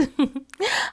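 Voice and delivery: gentle laugh; light laugh. A narrator's reading. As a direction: laugh fondly at the memory. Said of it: "she laughed".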